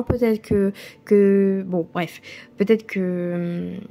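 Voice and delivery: hesitant, losing the thread; slowing down as the thought slips away; trailing off. Real, not acted. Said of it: "j'ai oublié ce que je voulais dire".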